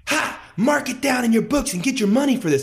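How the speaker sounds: put-on high, loud, cackling taunt from a spiteful old lady; mocking old woman. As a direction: jeer at him like a nasty old woman. Old woman mocks after spitting.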